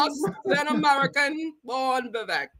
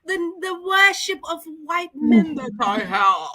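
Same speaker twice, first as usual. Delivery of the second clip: butler voice; 3 semitones higher, faster than usual. Retold or imitated. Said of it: "your butler voice".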